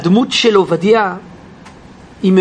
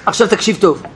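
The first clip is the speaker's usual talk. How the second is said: stern curt; 2 semitones lower, faster than usual. Acted. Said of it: "ככה היה בטון כזה".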